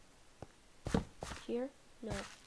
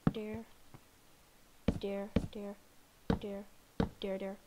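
whispering; 3 semitones lower, 6 dB quieter than usual. Pretend. Whispered repeated word.

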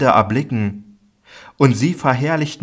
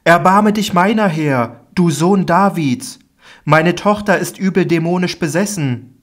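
much higher, louder desperate cry; pleading mother; 8 semitones higher, 3 dB louder than usual. Acted. Canaanite woman begs Jesus for her daughter, crying out. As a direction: cry out for mercy, begging.

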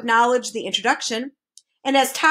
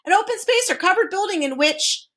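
higher-pitched dictionary definition; reciting; 7 semitones higher than usual. A narrator's reading. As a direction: reel off the entry formally. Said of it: "recited the Duke".

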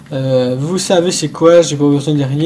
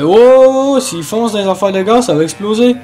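alarmed; 4 semitones higher than usual. Real, not acted. Police chase, gas tanks ahead.

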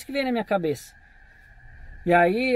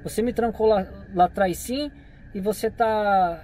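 imitando o cara; slower than usual. Retold or imitated. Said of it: "Desse jeito o cara falou".

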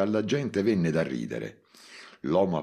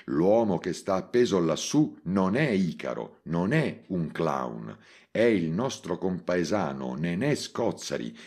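public address; 3 semitones higher than usual. Acted. Address to crowd over loudspeakers.

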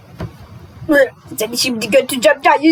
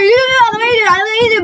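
ordering; 7 semitones higher, much faster than usual. Acted. Ordering someone into the car.

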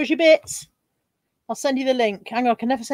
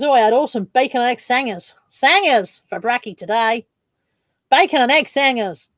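put-on Australian accent. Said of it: "why are you doing a French accent?".

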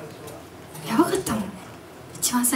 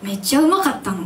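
Osaka dialect; 3 semitones higher, 3 dB louder than usual. Shown as a demonstration. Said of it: "大阪弁で".

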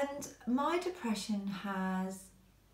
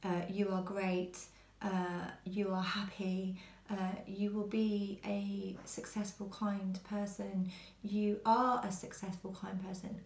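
kind affirmations. Shown as a demonstration. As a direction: speak kind encouragement tenderly. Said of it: "people that say kind, nice things".

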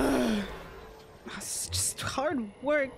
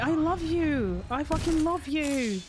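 gushing affection; 5 semitones higher than usual. Real, not acted. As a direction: declare love in a drawn-out gush. Loving the teammate, exaggerated.

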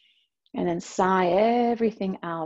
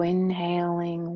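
whispered cue; slower than usual. Shown as a demonstration. Guide cueing the inhale count, whispered. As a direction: breathe the words "So inhaling" out as a hush. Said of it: "counts breath cue".

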